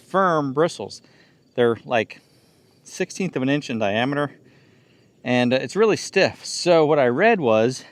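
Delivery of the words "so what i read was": winded from the ladder climb; panting a little between words; out of breath. Real, not acted. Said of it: "I'm out of breath from climbing those two ladders".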